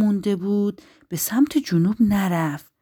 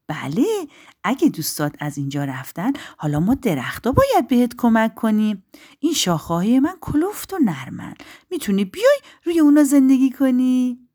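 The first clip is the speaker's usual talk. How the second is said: kind tree, rising into a louder invitation; kindly; 6 semitones higher, 5 dB louder than usual. A narrator's reading. Kind spruce welcomes the bird, warmly reassuring. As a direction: reassure first, then lift into a welcome. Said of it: "درخت صنوبر مهربان گفت".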